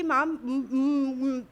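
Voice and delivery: mother choking up on each broken syllable, retold; stammering through tears as the mother begging the staff; sobbing plea. Mother breaks down pleading at reception.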